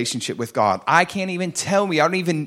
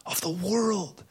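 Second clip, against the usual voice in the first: Jesus calling out; 5 semitones higher, 4 dB louder, much slower than usual. Retold or imitated. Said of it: "And he says".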